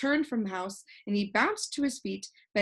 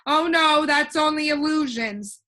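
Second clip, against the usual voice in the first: calling out; 7 semitones higher, 9 dB louder than usual. A narrator's reading. Alec corrects Milo's excited shout.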